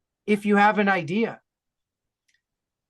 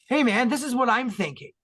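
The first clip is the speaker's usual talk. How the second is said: laying it on; 4 semitones higher than usual. Retold or imitated. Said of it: "Really laying it on with some dramaturgy".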